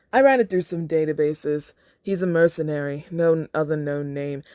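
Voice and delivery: a hint of an English butler's British accent; British accent, lightly held as the butler. Butler briefing Bruce, in a light British accent. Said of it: "I'm doing this little accent".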